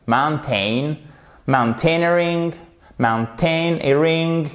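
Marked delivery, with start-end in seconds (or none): 1.5-4.5 mountaineering with main stress on EER and secondary on MOUN; MOUN-tai-NEER-ing, two beats. Shown as a demonstration. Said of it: "votre accent tonique juste ici".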